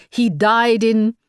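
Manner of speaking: put-on lightly French-accented, dismissive official; a hint of a curt French commissioner. A narrator's reading. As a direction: brush her off in a French accent. Commissioner interrupts.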